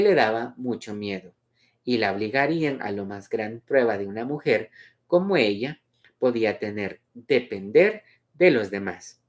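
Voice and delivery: measured, melodic read-aloud; story narration. A narrator's reading. Reader presenting Luz's memory of midday, story narration.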